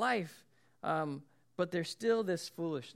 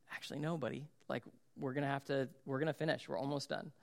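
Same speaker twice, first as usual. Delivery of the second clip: softer, soothing dad voice; gentle fatherly refusal; 3 semitones lower, 6 dB quieter, faster than usual. Retold or imitated. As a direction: let a hurt kid down gently. Dad calmly refusing hurt son.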